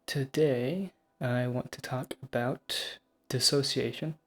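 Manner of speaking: speaking around a dental retainer; words slightly thick from retainers; wearing a retainer. Real, not acted. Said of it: "I have my retainers in, so my voice might sound a little weird".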